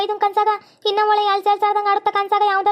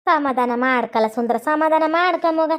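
slow, low soothing words; acted elder's slow reassurance; gentle consoling; 4 semitones lower, slower than usual. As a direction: comfort a crying grandchild, taking your time. Elder consoles a crying youngster.

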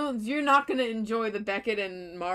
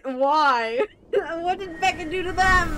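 louder, higher, laughing disbelief; incredulous; 7 semitones higher, 5 dB louder than usual. Real, not acted. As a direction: protest through a laugh. Incredulous about Beckett dislike.

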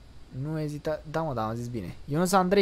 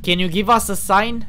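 loud, slow, higher-pitched English call; calling to a ghost; 4 semitones higher, 9 dB louder than usual. Real, not acted. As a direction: call out clearly to an unseen spirit. (strigare rară și tare către o fantomă)

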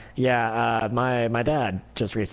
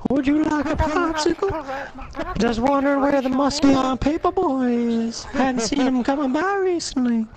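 creepy ASMR voice; 12 semitones higher than usual. Retold or imitated. Streamer copies the friend's creepy lisping ASMR stranger voice. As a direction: ham up the creepy popsicle man, pitched high. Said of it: "not like".

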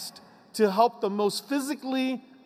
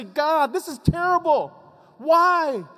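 higher, pained cry of why; anguished complaint to God; 7 semitones higher, 4 dB louder than usual. Retold or imitated. A person crying out to God in distress. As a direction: plead up at God, distressed and bewildered.

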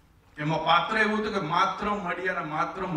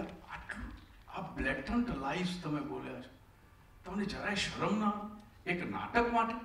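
pained rebuke; 6 dB quieter than usual. Retold or imitated. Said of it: "વ્યથિત મડિયાએ કહ્યું".

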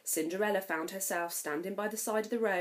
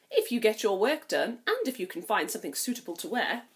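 sly; 4 dB louder than usual. Acted. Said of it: "with a sly smile".

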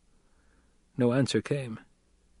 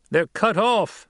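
higher, louder sudden call; shouted from the crowd; 10 semitones higher, 4 dB louder, slower than usual. A narrator's reading. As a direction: blurt out the realisation. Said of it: "someone shouted".

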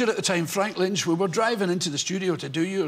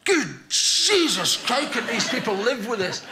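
mock disgust. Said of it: "you go".

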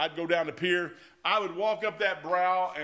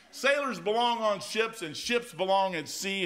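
senior chief's saying; 3 semitones higher, slower than usual. Retold or imitated. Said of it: "old senior chief tell me".

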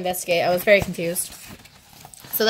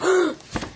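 high re-enacted gasp of surprise; surprised gasp; 9 semitones higher than usual. Vlogger showing viewers she was surprised, high gasp. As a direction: gasp to show you were startled. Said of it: "Sorry, he surprised me, if you didn't hear that".

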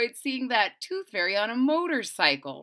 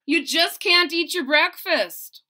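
raised, insistent mother; mother's voice; 5 semitones higher, 7 dB louder than usual. Acted. Mother telling Andrew the tooth won't come out. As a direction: call him like a worried mom.

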